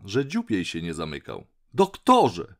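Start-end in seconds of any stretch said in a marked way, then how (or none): 1.7-2.5 loud, high call. A narrator's reading. Duck calls the doctor on deck, loud and high. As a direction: call out to him across the deck. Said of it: "zawołała".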